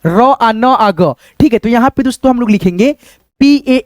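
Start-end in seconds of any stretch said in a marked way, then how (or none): 0.1-1.1 र आ न आ ग spelled out very slowly, sound by sound. Shown as a demonstration. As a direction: break रंग into its sounds slowly. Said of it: "रंग".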